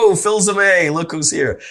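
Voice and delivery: put-on old coworker greeting. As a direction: greet him like a long-lost buddy. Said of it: "somebody will go".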